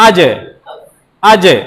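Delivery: আজে with জ bounced from mid-tongue; echoed aj. Shown as a demonstration. Teacher demonstrating the echo of jim. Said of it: "ওখান থেকেই আপনার কলকলা".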